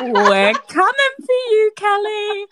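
high, drawn-out mock war cry; playful threatening call-out. Co-host jokingly warning Kelly they are coming, playful call-out. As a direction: call out loudly, half laughing.

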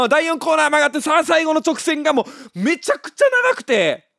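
high, fast horse-race announcer patter; a playful nod to a race announcer, sped up and pitched high; mock race call. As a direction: call the final stretch like a jockey race commentator. Retells the walk as a race.

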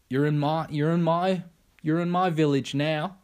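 put-on Australian villain voice; Australian accent. Villain fighting Bond in a pool of crocodiles, Australian accent. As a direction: play a Crocodile Dundee type with an Australian accent. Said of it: "Australian accent".

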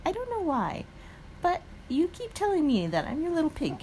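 high, playful gushing, easing down gradually; gushing reply. Retold or imitated. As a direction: imitate yourself gushing back to the teacher, way up high. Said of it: "And I was like".

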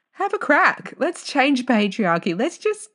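high, loud and punchy; rallying cry. Real, not acted. Urging women listeners, high and loud. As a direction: fire them up.

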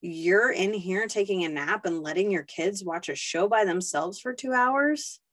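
mocking accusing voice. Satan taunting a tired mom, mocking and scornful. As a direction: scoff at her like a judgmental accuser. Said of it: "Satan will come in and tell you".

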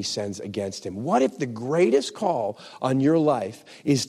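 earnest, swelling delivery with pauses for weight; impassioned preaching. Acted. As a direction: preach it as a dawning revelation. Preaches the revelation.

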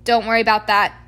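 loud hearty giant; booming reassurance; giant's voice. Acted. Hagrid voiced.

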